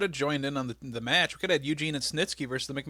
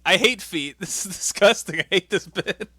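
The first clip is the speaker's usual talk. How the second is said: disgusted excitement; 6 semitones higher, 9 dB louder, slower than usual. Real, not acted. Reacting to foot rating reveal.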